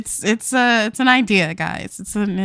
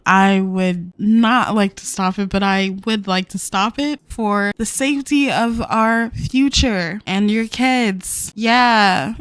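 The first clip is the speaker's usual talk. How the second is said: louder, heartfelt reluctant goodbye; mock-sincere louder plea to end the affair; earnest breakup speech; 4 dB louder than usual. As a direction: say it like you don't mean it but must. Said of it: "I feel like she'd say it like that".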